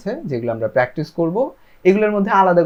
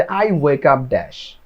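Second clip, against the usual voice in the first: each word slow and separate; slow model sentence; much slower than usual. Shown as a demonstration. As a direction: spell it out slowly for learners. Teacher models gap sentence.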